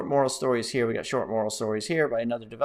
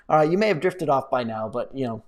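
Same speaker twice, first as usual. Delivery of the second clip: ordinary talk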